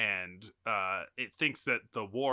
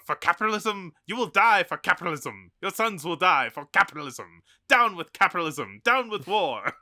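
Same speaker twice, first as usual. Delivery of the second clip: raised, loud rally oratory building in force; impassioned agitator's speech; 5 semitones higher, 7 dB louder than usual. Acted. Film pacifist denouncing war to an audience, impassioned oratory. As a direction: rail at the crowd, high and loud.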